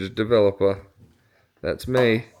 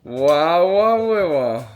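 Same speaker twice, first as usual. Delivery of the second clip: excited wow; 3 semitones higher, 5 dB louder, much slower than usual. Real, not acted. Praising daughter's twirl.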